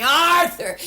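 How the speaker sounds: one last call of the name; mock shout. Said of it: "and I'm still shouting".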